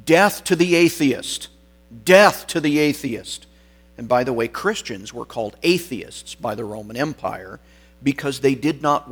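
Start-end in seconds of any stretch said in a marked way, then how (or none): 0.1-3.5 higher, louder imitated crowd chant; retold crowd scream. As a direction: call it out like a hostile crowd, short of screaming. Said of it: "the crowd started screaming".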